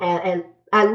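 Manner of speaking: tripping over the first words; stumbling, repeating at at at; stuttering. Real, not acted. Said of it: "sorry if I'm stuttering".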